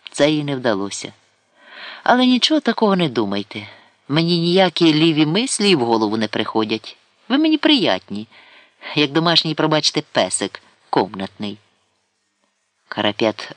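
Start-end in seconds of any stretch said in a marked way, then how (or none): 2.0-11.6 higher, coy surzhyk lady; Karapet flirting. Acted. Karapet assuring Sidalkovsky, coy and higher. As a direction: flirt sweetly, denying any intent.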